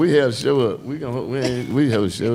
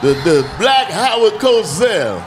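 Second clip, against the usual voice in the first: announcer shout; 3 semitones higher, slower than usual. Acted. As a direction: boom out the guest intro. Host hyping intros.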